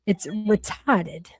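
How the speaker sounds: "It's retarded" drawn out slowly with no R; slow Boston accent. Shown as a demonstration. For chat, a slow Boston "It's retarded". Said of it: "I like the word in your accent".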